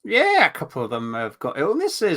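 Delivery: put-on light Scottish accent as manager David Moyes; Scottish Moyes impression. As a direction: mimic Moyes's Scottish accent at a press interview. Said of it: "You did a good Scottish accent as well".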